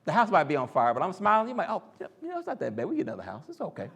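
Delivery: lightly voiced breezy smiler; a hint of a carefree churchgoer, fading to a laugh; mock cheery optimist. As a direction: play someone grinning through disaster. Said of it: "you'd be like".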